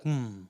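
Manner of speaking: low, very soft stoic hum; quiet, unmoved hmm. Retold or imitated. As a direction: give a short, understated grunt. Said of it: "like, stoically".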